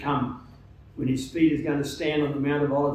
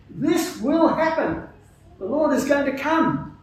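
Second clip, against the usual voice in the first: higher-pitched Canadian accent imitation; imitating a Canadian accent; 9 semitones higher than usual. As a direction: keep mimicking the Canadian visitor's accent, pitched up. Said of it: "in his, his, uh, Canadian accent".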